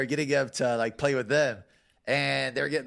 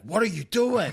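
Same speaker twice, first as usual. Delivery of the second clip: higher-pitched mock yell; retold yelling; 8 semitones higher, 3 dB louder, slower than usual. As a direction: imitate a teammate yelling in exasperation. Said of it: "like, yelling at me".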